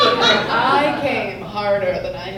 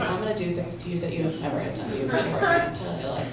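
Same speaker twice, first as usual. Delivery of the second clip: seductive woman; 4 dB quieter, faster than usual. Pretend. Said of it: "impression of a woman".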